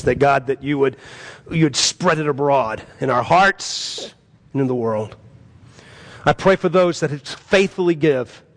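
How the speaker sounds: earnest pastoral prayer; congregational prayer. Real, not acted. Pastor praying over the congregation, earnest prayer. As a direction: lead the church to God reverently.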